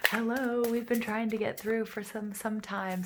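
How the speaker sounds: passed loved one greeting. Retold or imitated. Passed loved one greets the viewer after long trying, bright. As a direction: call out hello like a spirit finally getting through. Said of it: "And they're like".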